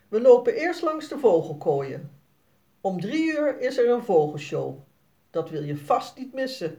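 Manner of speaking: a hint of an eager dad planning the day; papa. Papa voiced in story. (vader legt vrolijk uit, iets hoger)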